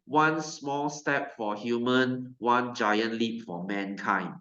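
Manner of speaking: slow, solemn quoted line; lightly voiced astronaut, slow and grand; a hint of a historic broadcast, slowed right down; solemn moon quote. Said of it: "and then what he said?".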